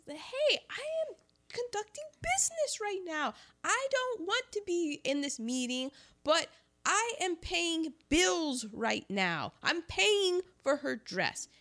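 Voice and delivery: high-pitched, hammed-up Southern banker; Southern accent. Banker brushing off an interruption in his meeting, mock-indignant Southern accent. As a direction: overplay an indignant Southerner, words stretched high. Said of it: "He also doesn't say it with a Southern accent at all".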